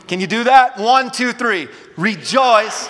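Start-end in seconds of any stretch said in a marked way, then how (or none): 2.0-2.9 mean the word Rejoice this time; emphatic rejoice; say it like you mean it. Shown as a demonstration. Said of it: "say it like you mean it".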